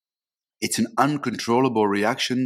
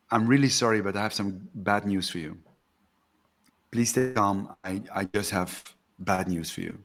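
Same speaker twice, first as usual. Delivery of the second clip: soft, careful bad-news warning; gentle warning demo; 2 semitones lower, 3 dB quieter than usual. Shown as a demonstration. Coach showing Bhakti how to warn before bad news, softly. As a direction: break it gently, softer. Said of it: "warn the other person".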